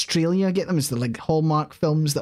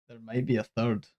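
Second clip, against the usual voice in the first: softer, laughing through the words; laughing repeat; 4 semitones lower, 7 dB quieter than usual. Real, not acted. Teasing Joy with the third film, laughing softly. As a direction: repeat it while giggling at the disaster.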